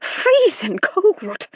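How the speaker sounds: high, slow frightened cry; gasping it out in fear; man chilled by the ghost; terrified. A narrator's reading. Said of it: "terrified voice".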